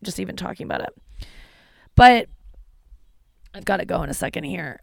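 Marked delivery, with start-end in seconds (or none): 0.0-0.9 near tears. Real, not acted. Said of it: "I'm almost gonna cry".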